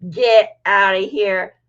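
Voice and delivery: loud, slow exclamation through amusement; amused disbelief. Real, not acted. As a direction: push it out, slow and incredulous. Amused disbelief, laughing around it.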